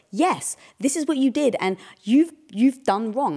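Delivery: acted-out self-justified telling-off; righteous accusation. Wife replaying her felt case against husband, righteously accusing. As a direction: lay down the charge, mildly emphatic. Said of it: "I didn't say it like that".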